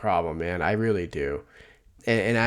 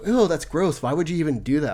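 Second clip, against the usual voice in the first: mock disgusted wife; 6 semitones higher than usual. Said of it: "my wife was just like".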